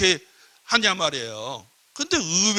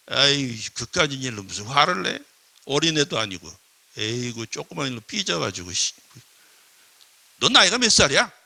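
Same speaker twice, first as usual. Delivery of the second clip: unempathetic scolding; 5 semitones lower than usual. Acted. Scolding an upset person as childish, unempathetic. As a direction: belittle their anger, then challenge them. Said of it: "전혀 안 하는 거란 말이에요".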